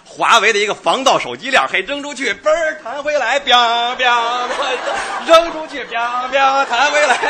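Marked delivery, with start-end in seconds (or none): 1.8-7.2 drawn-out, raised-pitch boings; springy sound effects. Pretend. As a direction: act out a bouncing phone chain. Demonstrating a springy phone chain. (拉长声音模仿手机链弹来弹去)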